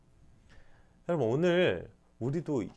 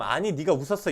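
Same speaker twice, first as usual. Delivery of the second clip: scolding take; 3 semitones higher, 8 dB louder than usual. Shown as a demonstration. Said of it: "이 말을 하는 건 혼내는 게 아니에요".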